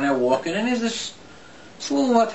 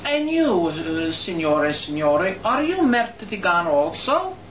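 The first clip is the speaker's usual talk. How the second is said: Italian waiter; slower than usual. Retold or imitated. Waiter turning his insult on the next table, mock-polite. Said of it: "he comes over and he goes".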